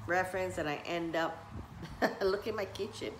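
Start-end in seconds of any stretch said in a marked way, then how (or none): 1.4-2.3 short breathy chuckle; quiet laugh to herself. Real, not acted. Laughing at her own kitchen.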